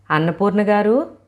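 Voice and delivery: woman loudly calling for her neighbour. Acted. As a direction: call the neighbour's name across the room. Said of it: "గట్టిగానే కేకేసింది సుజాత".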